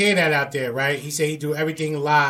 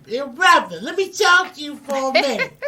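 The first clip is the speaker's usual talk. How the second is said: much higher, playful "yo brother" voice; pulling someone aside; 11 semitones higher than usual. Pretend. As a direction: call him aside, laughing. Acting out a backstage approach.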